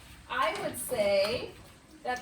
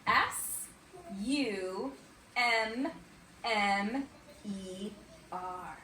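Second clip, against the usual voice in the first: letter by letter with pauses; spelling aloud; 3 semitones lower, 4 dB quieter, much slower than usual. Shown as a demonstration. Teacher helping young pupils spell a word, letter by letter. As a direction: spell it out slowly for the class. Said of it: "Let's spell the word summer".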